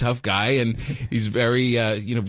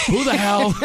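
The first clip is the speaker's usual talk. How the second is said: raised-pitch, blustering dad outburst; mock hard-ass dad; 10 semitones higher, 3 dB louder than usual. Friend imagining him as a dinner-table dad, mock hard-ass bluster. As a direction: play the tough father at the table. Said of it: "you're like a hard ass dad".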